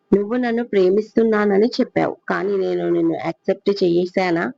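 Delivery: soft and cutting; hushed, cool rebuff; cold quiet question. Acted. Pooja quietly asking Rana if she ever accepted him, softly.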